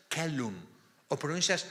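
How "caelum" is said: "celum" with a hard K and simple e, KE-lum; hard-C pronunciation. Shown as a demonstration. Teacher offers students a second option for Latin, "celum" with hard C. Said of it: "La C la pronuncias como C".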